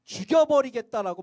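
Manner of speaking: threatening God. Acted. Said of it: "엄포를 놓".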